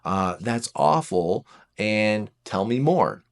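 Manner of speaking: gentle validation. Acted. A partner slowly comforting a hurting four. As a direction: take your time and comfort them. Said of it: "So you're saying".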